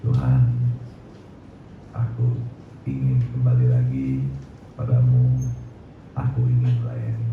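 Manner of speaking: low, halting prayer with long pauses; retold solemn vow. Preacher recalls pledging himself to God, low solemn vow. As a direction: promise it to God phrase by phrase, low. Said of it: "saya berjanji".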